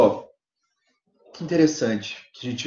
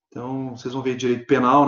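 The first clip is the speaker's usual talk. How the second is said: normal talking voice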